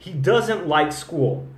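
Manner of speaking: He doesn't like school. said slowly with doesn't stressed; slow model sentence. Shown as a demonstration. Teacher modeling the sentence slowly for students. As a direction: spell out each word for the learner. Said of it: "mostrar pra cem americanos".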